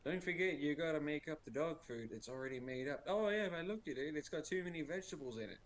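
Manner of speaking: lightly voiced nagging wife over the phone. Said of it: "she's over the phone going".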